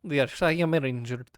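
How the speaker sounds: slow, proud creature; haughty creature voice. Acted. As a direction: talk down to lesser creatures.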